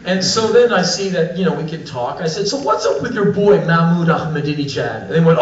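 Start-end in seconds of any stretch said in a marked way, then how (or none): 2.5-5.0 casually pointed question; needling question. Retold or imitated. American visitor asks Iranian guests about their president, casually needling. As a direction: toss out the provocative question lightly. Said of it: "What's up with your boy shit with us".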